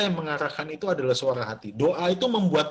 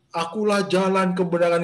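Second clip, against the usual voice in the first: louder, declaiming "Akulah jalan kebenaran" like a pompous voice from above; a mock-solemn divine declaration of "Akulah jalan kebenaran"; grand proclamation; 2 semitones higher, 4 dB louder than usual. Shown as a demonstration. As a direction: boom out "Akulah jalan kebenaran" as a lofty announcement. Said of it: "bersuaranya bukan gini".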